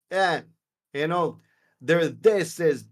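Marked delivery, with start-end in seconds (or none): 2.1-2.6 "this" with the TH hardened to D; New York TH as D. Shown as a demonstration. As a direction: say "this" as "dis", New York style. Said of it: "T Hs are a D almost".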